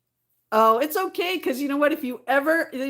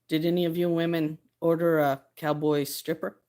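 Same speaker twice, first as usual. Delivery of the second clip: Davey's line; 5 semitones lower than usual. Retold or imitated. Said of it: "It was classic Davey when he showed up".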